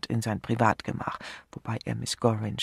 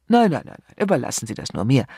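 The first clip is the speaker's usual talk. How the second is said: eager protest; 9 dB louder, faster than usual. Acted. Vater eagerly cuts her off.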